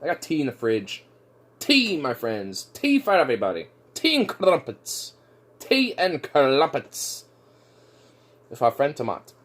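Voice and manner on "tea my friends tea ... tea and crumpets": slow, drawn-out mock-grand toast; slow hammed-up proclamation; posh tea bit. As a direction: savour each word like a toastmaster.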